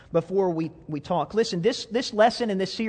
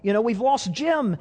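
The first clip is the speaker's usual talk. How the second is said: higher, louder mock panic; panicked buddies; 4 semitones higher, 4 dB louder than usual. Buddies watching their friend fall, mock panicked cry. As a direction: cry out in alarm as he goes over. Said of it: "they're going".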